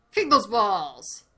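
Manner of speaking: loud slow command; yelling. Real, not acted. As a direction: shout it out. Yelling at game.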